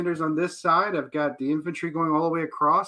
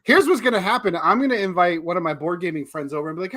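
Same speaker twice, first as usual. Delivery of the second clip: laughing; 4 dB louder than usual. Real, not acted. Laughing through his plan.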